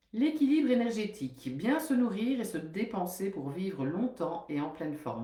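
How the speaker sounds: steady, measured reading of a book passage; reading aloud. Acted. Nutritionist reads a book chapter to her listeners, measured and even. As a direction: read the text out evenly, like a lesson.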